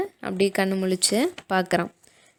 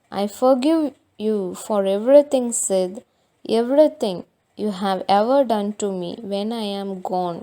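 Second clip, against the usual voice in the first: mock dying; 4 dB louder, much slower than usual. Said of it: "பெரிய ஆள் மாதிரி சாக போற மாதிரி".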